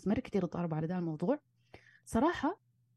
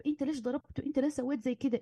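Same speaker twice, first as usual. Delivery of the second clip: higher, accusing quarrel voice, mildly acted; mock angry accusation; 5 semitones higher than usual. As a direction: throw the question at the husband as in a fight. Acted couple quarrel over hitting son. (اتهام غاضب بصوت أعلى، تمثيل خفيف)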